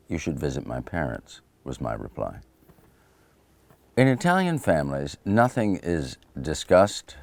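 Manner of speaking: reading his own memoir aloud, measured; book reading. Acted. Author reading his food memoir to listeners, even and measured. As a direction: read it like an audiobook passage.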